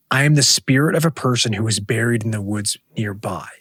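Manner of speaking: hushed voice from the grave; whispered ghost voice. Acted. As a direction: whisper it as a spirit. Voicing the witch's reply.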